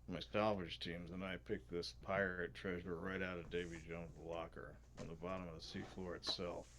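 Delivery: lightly gravelly treasure hunter, sinking at the end; a rough stab at a gravelly adventurer; Indiana Jones. Acted. Salvage leader tells of pirate treasure, lightly gravelly hero voice. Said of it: "he's Indiana Jones".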